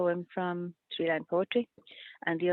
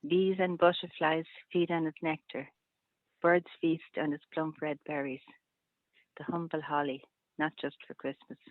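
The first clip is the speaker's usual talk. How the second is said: poem reading. Acted. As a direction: read each line evenly, then pause and let it settle. Rereads three-line poem.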